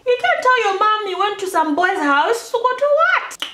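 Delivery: high, loud rant at oneself; hammed-up exasperated scolding; mock self-scolding. Scolds herself in imagined inner voice.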